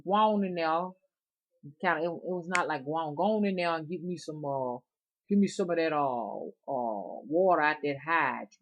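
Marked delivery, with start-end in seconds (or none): 0.1-0.9 put-on old Southern drawl. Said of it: "He would be like this". 3.2-8.5 put-on old Southern drawl. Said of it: "He would be like this".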